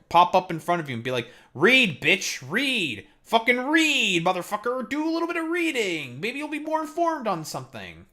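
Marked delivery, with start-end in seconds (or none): 1.5-3.1 lightly voiced bossy old man, barking orders; a hint of Uncle Ruckus shoving a book at someone; mild mock scolding old man. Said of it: "I'm gonna turn into fucking Uncle Ruckus". 3.2-8.1 hammed-up Uncle Ruckus stretching out the insult. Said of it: "I'm gonna turn into fucking Uncle Ruckus".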